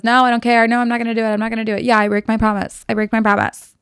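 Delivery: mock-stubborn retort, rattled off firmly; defiant refusal. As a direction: dig in like someone refusing to budge. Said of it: "Victor holds his ground".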